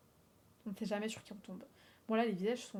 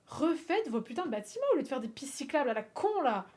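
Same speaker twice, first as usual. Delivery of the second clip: annoyed rant; 2 semitones higher, 3 dB louder than usual. Real, not acted. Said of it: "je suis un peu énervée".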